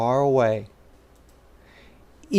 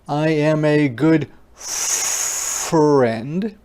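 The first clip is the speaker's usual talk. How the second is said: friendly character voice; 2 semitones higher, slower than usual. Acted. Reading card in character voice.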